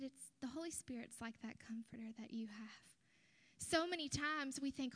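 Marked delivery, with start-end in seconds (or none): 0.0-3.0 whispered, gentle and close; soft whisper. Retold or imitated. Preacher consoling weeping friend, soft whisper. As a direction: breathe it to her gently. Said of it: "I said".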